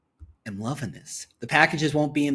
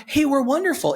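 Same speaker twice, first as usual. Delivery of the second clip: mock ad voice; 10 semitones higher, 3 dB louder than usual. Voicing the ad's message.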